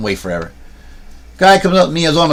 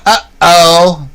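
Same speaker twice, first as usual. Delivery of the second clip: startled uh-oh; 4 semitones higher, 5 dB louder than usual. Real, not acted. Just dropped the camera.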